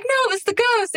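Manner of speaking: put-on high child voice, hushed; high, innocent little-girl voice; kid blaming the ghost. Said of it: "And she's like".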